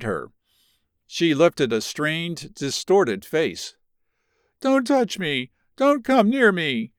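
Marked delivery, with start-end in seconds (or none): 4.6-6.9 high cry of refusal, much higher. A narrator's reading. Ruth cries out to her husband to keep away, high and anguished. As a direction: push him away with your voice. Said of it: "she cried".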